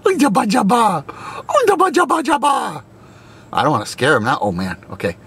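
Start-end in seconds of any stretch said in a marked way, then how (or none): 0.1-2.8 calling out. Real, not acted. Calling to the camels.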